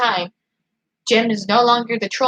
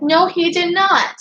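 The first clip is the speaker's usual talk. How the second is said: higher, drawn-out indignant denial; indignant retort; 7 semitones higher, 3 dB louder, slower than usual. Retold or imitated. Livestreamer retelling a spat with sister, indignant. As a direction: push back hard, stretching the words.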